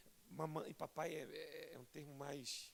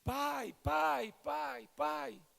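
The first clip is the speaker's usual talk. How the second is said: put-on high child's call to dad; 9 semitones higher, 7 dB louder, much slower than usual. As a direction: call out like a small boy wanting his father. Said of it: "ele começou a gritar". (menino chamando o pai, voz aguda)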